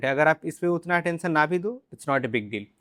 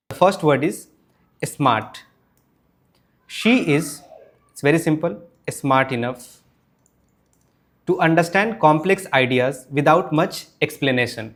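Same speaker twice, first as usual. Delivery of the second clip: louder, slow practice sentences; louder drill; 4 dB louder, much slower than usual. Shown as a demonstration. Teacher drilling smart, louder. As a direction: project each line for students. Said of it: "speaking practice drill".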